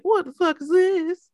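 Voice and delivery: high, loud "what the fuck"; shocked outburst. Retold or imitated. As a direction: blurt it out in disbelief. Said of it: "I was like".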